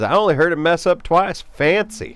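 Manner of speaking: lightly put-on chat viewer voice; Ghost Pepper voice. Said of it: "That's my best Ghost Pepper voice".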